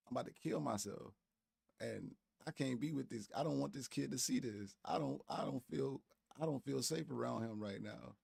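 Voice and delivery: lightly mocking a distraught woman; mocking her. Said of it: "But she talking like this".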